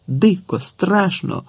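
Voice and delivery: plain reading voice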